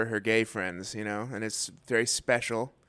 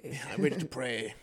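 put-on softer caricatured Asian accent; mock Asian accent; 7 dB quieter, faster than usual. Co-host echoing ballplayer, soft mock Asian accent. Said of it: "And an Asian man".

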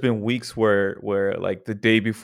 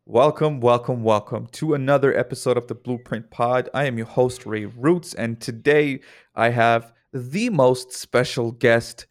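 excited host. Acted. Host opening the show.

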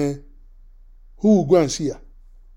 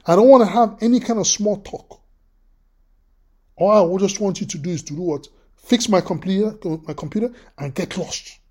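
curt dismissal. Retold or imitated. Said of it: "this is how she says".

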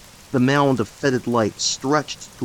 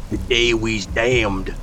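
flat grim statement; slower than usual. Acted. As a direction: state it like plain fact. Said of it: "Josiah stated flatly".

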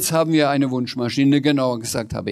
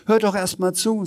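Sams voice; 9 semitones higher than usual. Acted.

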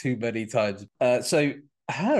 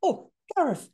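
mock exasperated. Mock scolding a friend.

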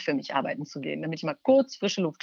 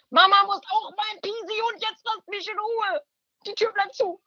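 yelling from the bathroom; 13 semitones higher than usual. Retold or imitated. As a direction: shout them off through the door, pitched way up. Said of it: "Ich brülle notfalls auch meine Kinder an".

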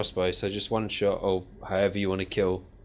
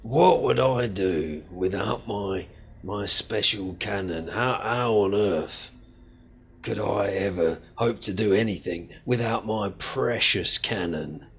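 sarcastic gushing. Acted. Boss mocks the recruit by doting on his cannon. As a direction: gush over "precious cannon" with sarcasm. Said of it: "boss gushes sarcastically over cannon".

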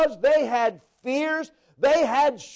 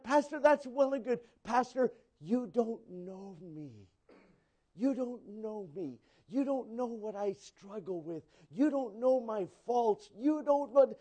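doubting listener; 2 semitones lower, 8 dB quieter than usual. Retold or imitated. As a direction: murmur the doubts inwardly. Doubting congregant talks to pastor.

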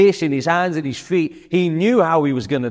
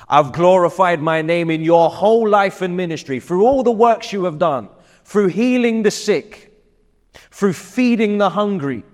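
rising proclamation; 5 semitones higher than usual. Retold or imitated. God's voice listing deeds, building.

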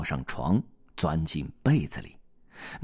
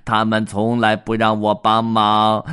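whimpering duck; 3 semitones higher, 8 dB louder than usual. Acted. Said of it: "鸭子哭哭啼啼地说".

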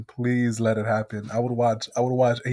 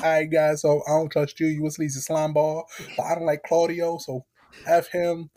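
wrestling promo; 5 semitones higher than usual. Retold or imitated. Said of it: "He was like".

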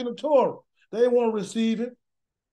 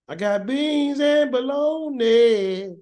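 inviting parent; 3 semitones higher, much slower than usual. Retold or imitated. Parent offering home.

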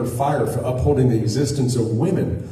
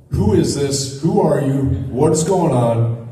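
alarmed questions; 4 semitones higher, 4 dB louder than usual. Retold or imitated. Friend alarmed by the demon bot.

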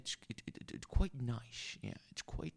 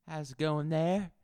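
higher, cheery host voice; lightly voiced radio host; 6 semitones higher than usual. Tavern host greets the radio audience in a higher cheery voice. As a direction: greet the listeners like a lounge DJ.

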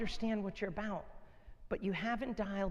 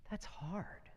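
softer whispered aside; 8 dB quieter than usual. Real, not acted. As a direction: breathe it out as a quiet aside. Hushed aside after the crutch line.

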